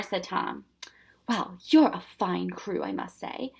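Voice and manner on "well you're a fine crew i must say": cheerful. Acted. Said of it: "the professor said cheerfully".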